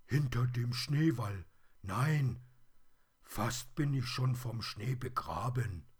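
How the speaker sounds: high, loud toy-bear voice; plush teddy in distress. A narrator's reading. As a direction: call out as a snowed-in teddy.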